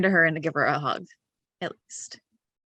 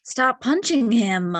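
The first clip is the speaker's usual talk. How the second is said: exasperated plea; 3 semitones higher, 4 dB louder, slower than usual. Acted. Acted exasperated plea to a companion.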